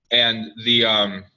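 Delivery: talking while chewing seeds; chewing sunflower seeds. Real, not acted. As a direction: mouth busy with sunflower seeds. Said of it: "sorry, I'm chewing sunflower seeds".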